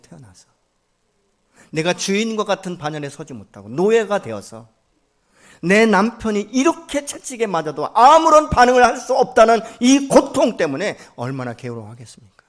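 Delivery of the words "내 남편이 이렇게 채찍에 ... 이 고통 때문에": rising to an impassioned shout; anguished loud cry. Acted. Preacher crying out the enslaved wife's anguish, loud and impassioned. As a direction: cry out the wife's pain at full force.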